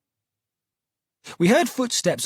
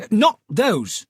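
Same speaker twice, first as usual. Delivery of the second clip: cry out; 7 semitones higher, 4 dB louder than usual. Acted. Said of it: "he cried".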